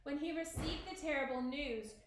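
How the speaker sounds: measured read-aloud storyteller voice; story narration. A narrator's reading. Teacher reading Romeo and Juliet to the class, story narration.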